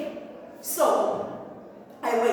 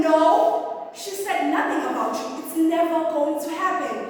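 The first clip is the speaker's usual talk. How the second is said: raised voice, firm acted denial; emphatic retort; 4 semitones higher than usual. Retold quarrel, firm denial.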